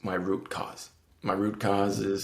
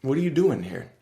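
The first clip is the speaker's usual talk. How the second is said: higher, hammed-up inner voice yelling; mock yell; 5 semitones higher, 4 dB louder than usual. Subconscious scolding him every day, higher mock yell. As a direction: nag yourself like a scolding inner voice. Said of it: "my subconscious is yelling at me like".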